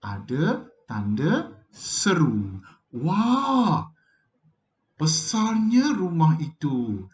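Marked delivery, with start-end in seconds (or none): 2.9-7.1 drawn-out, amazed wah then slower praise; exclamation of wonder. Shown as a demonstration. Teacher demonstrating an exclamatory sentence, amazed and slower. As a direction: marvel at the big house. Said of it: "Ada wah, kata seru".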